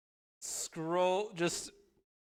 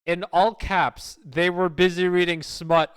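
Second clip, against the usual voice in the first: all-caps reading; 5 dB louder than usual. Shown as a demonstration. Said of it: "Let me read it out loud".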